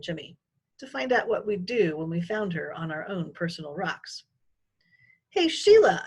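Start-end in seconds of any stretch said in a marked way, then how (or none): 5.3-6.0 calling out. A narrator's reading. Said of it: "I said".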